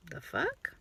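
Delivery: near-whispered, baffled aside; muttered disbelief. Retold or imitated. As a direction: whisper it under your breath, taken aback. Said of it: "And I'm like".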